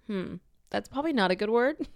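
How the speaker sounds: softly voiced disapproving child; quiet, hesitant little reproach; child's mild disapproval. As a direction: imitate a kid gently tutting, softly. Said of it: "looked at me like".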